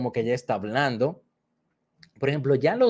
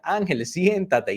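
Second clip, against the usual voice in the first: slow, higher echo of the order; echoing child; 5 semitones higher, slower than usual. Retold or imitated. Boy echoes the teacher's order, slow and higher. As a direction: repeat the order back like the child. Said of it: "y él repetía".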